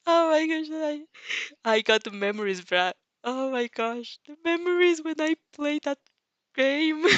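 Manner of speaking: high, giddy oh my gosh; excited gushing. Real, not acted. Narrator gushing at memories.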